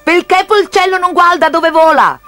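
put-on high, loud caricature Chinese accent; R turned to L, in a mock Chinese accent. A narrator's reading. Chinese kite flyer scolds piggy bank, mock Chinese accent. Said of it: "chiese il cinese".

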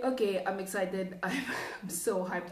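breathless from rambling; out of breath. Real, not acted. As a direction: talk while short of breath. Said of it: "I'm out of breath 'cause I'm just rambling".

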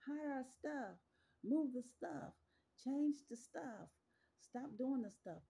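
hammed-up panic hiding evidence; panicked mock guilty crowd. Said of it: "And they like".

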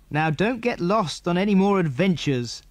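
a hint of a father shouting to the sea; mild shout. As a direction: call after the boat, half joking. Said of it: "shouted the children's father".

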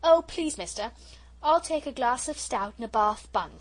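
lightly voiced old lady, loud pleading; a hint of a dotty old lady asking. Porter mimics old lady asking guard for stout. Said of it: "she says".

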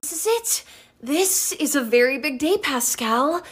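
light lisping Rapunzel. Retold or imitated. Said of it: "Rapunzel has a slight lisp and this nasal quality".

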